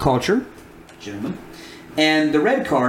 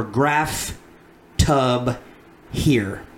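sounding out words; much slower than usual. Shown as a demonstration. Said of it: "I'll start out by reading them slowly".

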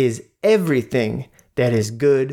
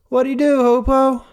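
exasperated; 12 semitones higher than usual. Real, not acted. Exasperated question to co-host.

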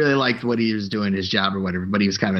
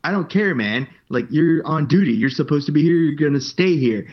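dismissive boss; 5 semitones higher than usual. Retold or imitated. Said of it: "And he's like".

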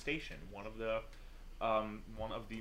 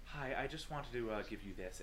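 kind offer; 5 dB quieter than usual. Acted. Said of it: "looks at you and goes".

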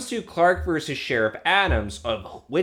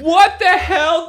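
surprised; 13 semitones higher, 7 dB louder than usual. Real, not acted. Reacting to the scene.

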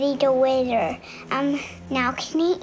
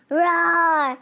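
lion roar; 4 semitones higher, 4 dB louder than usual. Pretend. Child says he is a lion.

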